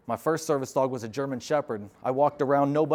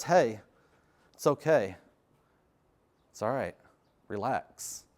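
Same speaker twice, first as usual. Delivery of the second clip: calming dog voice; 4 semitones lower, slower than usual. Pretend. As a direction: talk yourself down gently. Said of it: "service dog that says".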